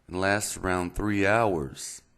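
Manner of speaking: "three hours" read slowly in a put-on Texas accent; playful mock Texas accent. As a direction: read it like a Texan, dragging it out. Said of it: "excuse the Texas accent".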